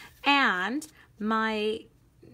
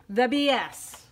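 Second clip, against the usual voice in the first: "the B S" louder, a teasing pause before it; cheeky emphasis; 6 dB louder, slower than usual. Real, not acted. Teacher joking to viewers, "the B S" said louder with cheek. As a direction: land "the B S" as a naughty joke, louder. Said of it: "I know that sounded funny".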